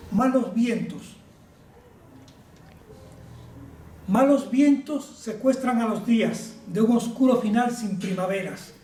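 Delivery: measured verse reading, pausing after each line; formal, deliberate poetry reading; poem recitation. Acted. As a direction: declaim it like a solemn poem. Recites his pandemic poem.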